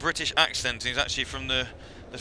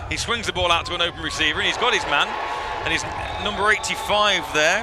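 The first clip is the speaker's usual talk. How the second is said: lively, slightly raised football commentary; live play-by-play; 3 semitones higher, 3 dB louder than usual. Real, not acted. Commentator calls a completed pass for viewers, live play-by-play. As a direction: call the play as it unfolds.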